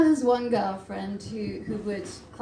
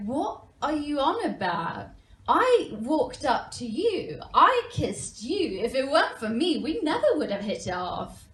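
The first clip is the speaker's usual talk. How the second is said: retold indignant correction; 3 semitones higher than usual. Girlfriend disputing who made the first move, indignant. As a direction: correct them, leaning hard on each claim.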